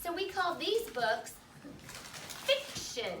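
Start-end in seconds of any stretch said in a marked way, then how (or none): 2.4-3.1 fiction said slowly and clearly; model word fiction. Shown as a demonstration. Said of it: "Can you say fiction?".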